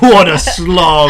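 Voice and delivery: slow mock-British grumble; put-on British weariness; British accent. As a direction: draw it out in British. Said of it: "all gonna talk in a British accent".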